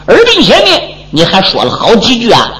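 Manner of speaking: lightly voiced old man placating; old squire hushing. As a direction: hush him down, coaxing him inside. Old squire speaks again.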